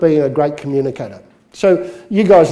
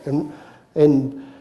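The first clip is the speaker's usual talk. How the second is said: usual speaking voice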